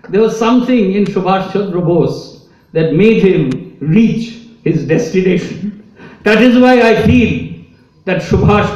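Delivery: moved while speaking of his granduncle; emotional. Real, not acted. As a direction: voice swelling with real emotion, rising then settling. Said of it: "I get a bit emotional talking about my granduncle".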